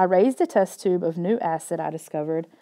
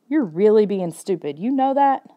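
scolding; 3 semitones higher than usual. Acted. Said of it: "Kayla wasn't finished scolding me".

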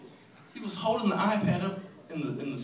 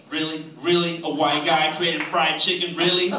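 incredulous; 6 dB louder than usual. Acted. Outraged at Colonel Sanders.

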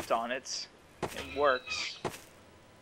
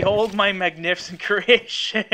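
grand, slow boastful unveiling; pompous vain hero; 6 dB louder, slower than usual. Pretend.

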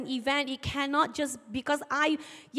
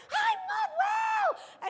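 very high, slow shouted reply; old lady shouting her answer in the market; old lady shouting back; much slower than usual. Retold or imitated. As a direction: holler it back like she can barely hear. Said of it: "they started a shouting match".

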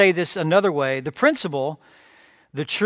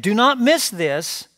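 urgent warning; 4 semitones higher, slower than usual. Retold or imitated. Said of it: "he essentially said".

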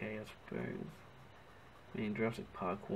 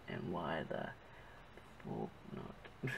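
muttered; 7 semitones lower, 8 dB quieter, slower than usual. Real, not acted. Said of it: "I said pork".

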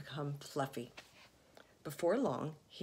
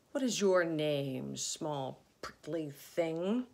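unkind rhino; slower than usual. Acted. Rhinoceros sneering at Fluffy, slow and unkind. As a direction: sneer down at the prickly little thing. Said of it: "asked the rhinoceros unkindly".

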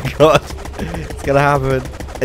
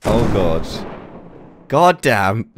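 usual speaking voice

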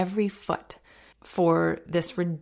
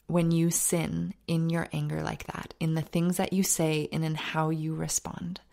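gentle fatherly advice. Retold or imitated. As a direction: ease it out like a father teaching. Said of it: "And the dad says".

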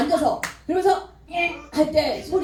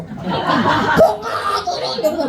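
mock scary shout; 6 semitones higher, much slower than usual. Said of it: "무서워".

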